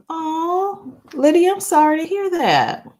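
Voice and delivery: high-pitched, real condolence; sympathetic. Real, not acted. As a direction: console a friend, pitch lifted high. Consoling viewer who lost pet.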